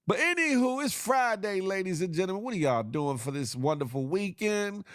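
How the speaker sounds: upbeat host voice. Real, not acted. Host greeting the viewers for Friday, upbeat and high. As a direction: switch into cheerful show host.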